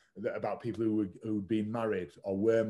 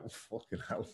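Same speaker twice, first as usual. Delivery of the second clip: hushed whispered disbelief; stunned whisper; 10 dB quieter than usual. Retold or imitated. Reacting to a famous singer's call with a stunned whisper. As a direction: breathe it out, whispered, in shock. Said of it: "And then I was like".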